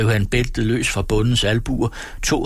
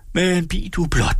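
high-pitched warning; angry threat; 8 semitones higher than usual. A narrator's reading. Peasant threatening the forester, angry threat.

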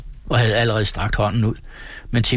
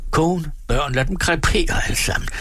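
higher-pitched despairing anger; desperate outburst; 7 semitones higher than usual. A narrator's reading. Ruined peasant giving up on wife and children, desperate outburst. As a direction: give up on everything, voice raised in pitch.

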